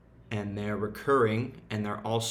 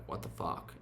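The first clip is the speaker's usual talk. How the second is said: hushed, breathy what the fuck; whispered inner voice; 4 semitones lower, 9 dB quieter than usual. Retold or imitated. Talking to himself on a tired morning, hushed whisper. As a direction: whisper it to yourself in disbelief. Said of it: "Because I'm like".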